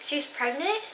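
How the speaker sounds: rising, lightly imitated disbelief; grandpa's puzzled realization, mildly acted; surprised question. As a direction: let it climb at the end, as retold surprise.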